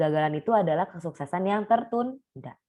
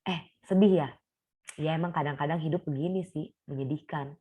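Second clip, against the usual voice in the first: gentle concern. Retold or imitated.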